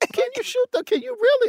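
mock voice up an octave. Repeating another person's question back, mocking their voice going up an octave. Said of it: "The octave was the part that was wrong".

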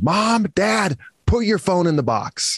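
mock toddler screaming at full lungs, high, drawn out. Retelling a four-year-old son's demand: retelling a child screaming loudly. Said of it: "started screaming at the top of his lungs".

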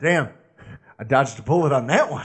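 slight, very low, drawn-out southern drawl. Retelling how a man from Carolina reacted over his bourbon, in little southern drawl. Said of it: "In his little southern drawl".

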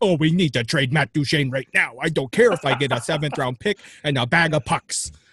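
acted, loud, ranting, irate sports fan voice. Talking about Predators trade chatter, imitating fans, mock angry fan voice. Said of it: "That's my angry fan voice".

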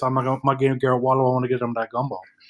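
rattled-off patter, very fast. Doing an impersonation of Garrett Wallow: fast-talking Garrett Wallow impression. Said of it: "talk real fast like this".

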